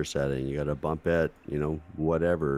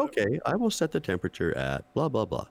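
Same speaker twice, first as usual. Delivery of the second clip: put-on old speech synthesizer; 6 semitones higher than usual. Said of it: "appliance replies".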